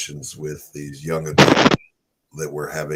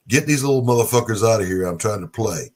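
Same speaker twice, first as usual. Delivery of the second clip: rude husband voice; 3 semitones higher, 4 dB louder, faster than usual. Retold or imitated.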